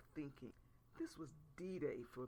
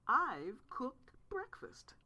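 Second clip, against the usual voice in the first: slow, whispered boast; hammed-up whispered brag; mock pride; 8 semitones higher, 7 dB louder, much slower than usual. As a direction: present cereal like a gourmet dish.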